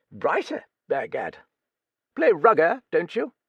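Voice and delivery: put-on Writer rising, high and doubtful in the old lady voice; Duchess echoing Writer. A narrator's reading. Old Duchess echoing the writer's answer, high rising doubt. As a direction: repeat the word like a sceptical dowager.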